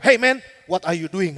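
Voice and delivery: slow, firm mock challenge; imitating loud challenge. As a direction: act out a firm "caught you" challenge. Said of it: "Ngomongnya keras banget".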